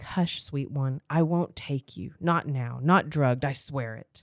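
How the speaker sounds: low, hushed reassurance; soothing hero. Acted. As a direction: gently voice a hero calming his beloved. Hero soothes the drugged heroine.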